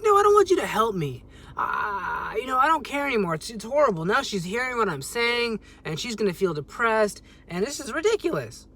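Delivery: falling apart while pushing help away; hysterical. Retold or imitated. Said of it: "I was just hysterical by this point".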